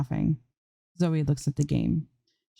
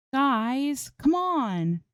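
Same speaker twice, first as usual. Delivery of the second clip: higher, whiny protest to the chat; complaining; 10 semitones higher, much slower than usual. A narrator's reading. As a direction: plead with the chat, exasperated. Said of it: "she complains again".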